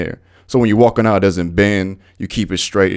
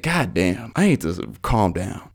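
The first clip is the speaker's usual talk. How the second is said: self-calming; 6 dB quieter, slower than usual. Retold or imitated. Retelling himself calming down after rant.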